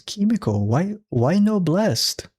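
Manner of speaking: high, very slow, otherworldly plea; hammed-up ghost telling her it was inside her; mock ghostly boyfriend. Friend parodies the dead boyfriend's vision, slow high mock plea. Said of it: "comes out of nowhere and goes".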